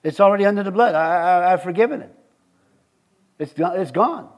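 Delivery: soft, mild puzzlement; hushed, acted divine reply; the Lord answering. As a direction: play God gently dismissing a forgotten matter. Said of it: "The Lord says".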